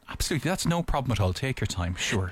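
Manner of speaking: low, polite fancy-booking voice; lightly posh, obliging reply; fancy-place phone voice. Retold or imitated. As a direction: put on a mild posh phone manner. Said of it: "if it's fancy".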